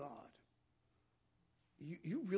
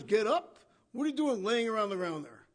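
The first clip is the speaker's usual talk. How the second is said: loud, stern voice of God; booming command; 8 dB louder than usual. Acted. God ordering whining Joshua up, booming. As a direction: bark it down at him.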